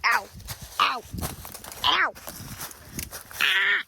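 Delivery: pained yelps while stumbling; real ow, scrambling through brush; tripping and falling. Real, not acted. Kid pushing through brush, poked.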